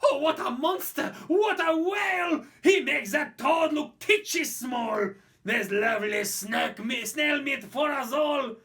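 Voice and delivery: high, loud greedy yelling; shouting French crowd. Acted. French mob shout over the giant snail, loud and high. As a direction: roar for a feast like a hungry mob. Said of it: "The French were shouting".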